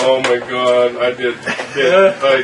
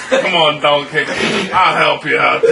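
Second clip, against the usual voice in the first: hearty encouragement; 2 semitones higher, 6 dB louder, slower than usual. Acted. Dwarf hauling donkey on shoulder.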